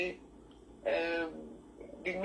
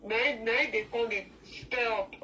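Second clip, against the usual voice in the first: laughing; 6 dB louder than usual. Real, not acted. Laughing while talking.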